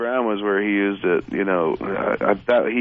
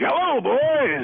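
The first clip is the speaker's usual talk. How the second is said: much higher, slow, drawn-out party greeting; LA party guy; much slower than usual. Pretend. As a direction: gush it out like an LA partier. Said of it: "I could just do an L A bump".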